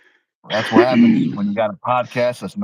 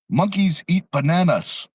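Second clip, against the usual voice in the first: imitating a heavy Asian accent, higher and slow; 7 semitones higher, slower than usual. Retelling Ichiro's interview to co-host, imitated heavy Asian accent. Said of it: "he's got this heavy Asian accent".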